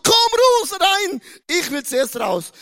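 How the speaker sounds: put-on high demanding baby voice, fading; a baby pushing to be first; lightly whiny baby. Preacher voicing baby Jakob fighting to be born first, whiny.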